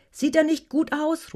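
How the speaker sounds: high, drawn-out, delighted question; laughing delight. A narrator's reading. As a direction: admire it with exhilarated glee. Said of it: "Ruadan lachte".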